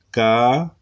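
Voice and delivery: ca held long by itself; single syllable. Shown as a demonstration. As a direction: sound out ca as one slow syllable. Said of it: "primero consonante vocal". (ca como sílaba aislada y alargada)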